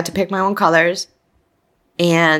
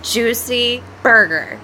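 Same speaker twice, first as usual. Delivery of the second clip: laughing; 5 semitones higher, slower than usual. Real, not acted. Craving burger after release.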